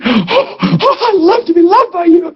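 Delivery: high, crooning reply; hammed-up adoring reply; mock Jesus voice. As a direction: play Jesus basking in love. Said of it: "He's going".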